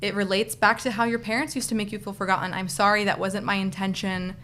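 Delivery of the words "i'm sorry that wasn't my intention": gentle apology. Shown as a demonstration. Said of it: "just saying".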